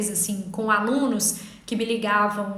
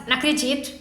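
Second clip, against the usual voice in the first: exasperated inner voice; faster than usual. Retold or imitated. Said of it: "você já tá assim".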